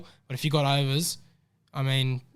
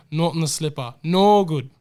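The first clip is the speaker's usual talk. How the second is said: a rough, hammed-up British or Kiwi accent; mock British accent, badly done; 6 dB louder than usual. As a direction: fake a clumsy British accent for the punter. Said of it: "Oh, stop the accent".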